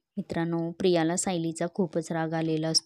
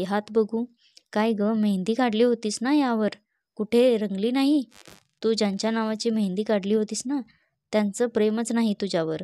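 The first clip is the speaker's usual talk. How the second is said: higher, louder mocking jibe; taunting Sayli; 3 semitones higher, 4 dB louder than usual. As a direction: rub it in, sing-song scorn. Sayli taunts Priya about mehndi. (प्रियाच्या मेहंदीवरून टोमणा मारणारी Sayali, चढा उपहासाचा सूर)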